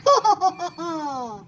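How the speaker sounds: hearty laugh, dying away. Acted. Laughing at loud singing.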